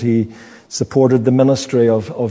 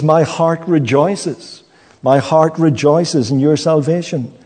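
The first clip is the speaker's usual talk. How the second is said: "My heart rejoices" lifted higher and slower, full of joy; higher, slow, glad proclamation; joyful rejoicing; 4 semitones higher than usual. Acted. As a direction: let the joy break through after the sorrow. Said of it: "what a contrast of change of heart".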